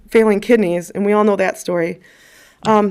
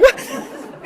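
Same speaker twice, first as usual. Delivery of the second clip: startled grandmother; 4 dB quieter than usual. Retold or imitated. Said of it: "she would be like".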